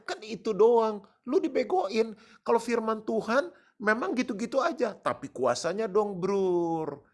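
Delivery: loud, high, pounding sermon; fiery preaching. Acted. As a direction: hammer the congregation with passion. Preaching at full force. (khotbah berapi-api, keras dan tinggi)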